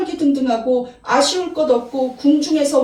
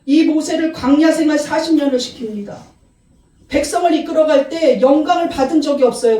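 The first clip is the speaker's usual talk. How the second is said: ordinary delivery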